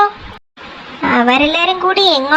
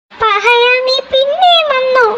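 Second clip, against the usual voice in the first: angry creature voice; 9 semitones higher, slower than usual. Acted. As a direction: snap at the rascal. Angry character voice.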